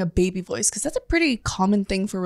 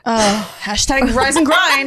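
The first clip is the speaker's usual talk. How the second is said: mock hustle voice; slower than usual. Mocking hustle-culture wife.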